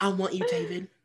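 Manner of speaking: put-on Southern accent, pitched high. Repeating Nicole's line to another speaker: imitating Reese's Southern accent. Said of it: "Reese's Southern accent comes out".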